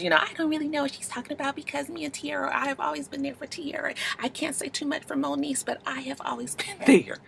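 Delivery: high breathy put-on voice; mock her in a high airy voice; mocking Nikki impression. Voicing Nikki Baby mockingly.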